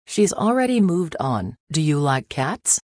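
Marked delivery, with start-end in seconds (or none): 1.7-2.8 abrupt cheerful question; lightly voiced old lady asking; sudden question. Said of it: "she asks suddenly".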